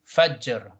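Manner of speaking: "Fajr" with a bouncing J; qalqala on jim. Shown as a demonstration. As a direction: echo the J of "Fajr". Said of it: "Jim is a qalqala".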